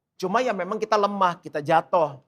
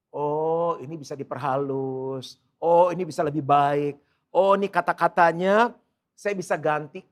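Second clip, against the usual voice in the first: musing; 5 semitones lower than usual. Retold or imitated. Acting out his own reflection.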